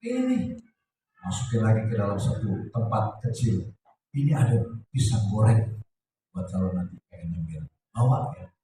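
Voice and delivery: low-key caring fussing; gentle, attentive. Acted. Newlywed wife packing husband's coffee and snack, gently. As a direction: look after him tenderly, unhurried. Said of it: "lembut, perhatian".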